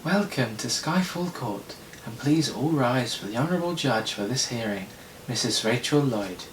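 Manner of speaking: lightly voiced court announcer; a hint of formal courtroom ceremony. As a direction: announce the judge formally, unhurried. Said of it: "Amelia Williams".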